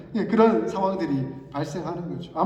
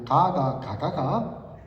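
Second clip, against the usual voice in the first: Gyeongsang dialect demo; 3 semitones lower, much slower than usual. Shown as a demonstration. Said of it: "가시성을 가지고 있느냐".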